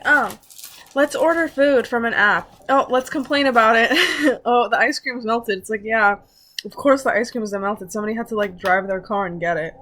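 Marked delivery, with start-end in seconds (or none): 0.1-5.6 mocking whiny customer. Mocking complaining delivery customers.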